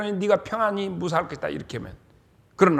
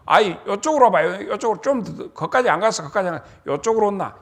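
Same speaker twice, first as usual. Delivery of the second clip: calling back; 4 semitones higher, 6 dB louder, faster than usual. Acted. Jonathan calls the boy back.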